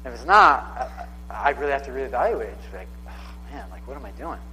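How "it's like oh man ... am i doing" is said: breathy, much softer whisper to himself; a hushed aside, caught off guard by his own life; whispered self-doubt. Retold or imitated. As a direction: whisper it, dismayed at yourself.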